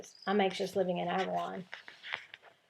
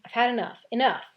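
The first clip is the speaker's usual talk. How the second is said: louder, higher angry outburst on the phone; fed-up shout; 4 semitones higher, 6 dB louder than usual. Acted. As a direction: slam the words down as you hang up.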